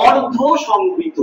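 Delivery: অর্ধ সংবৃত said slowly; introducing a new term. Shown as a demonstration. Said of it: "সেটাকে বলতে আমরা বলি".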